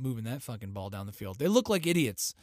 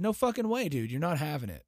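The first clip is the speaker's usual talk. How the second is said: mock defiant refusal; 2 semitones higher than usual. US voiced refusing North Korea, brash mock defiance. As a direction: blurt it like a cocky dude.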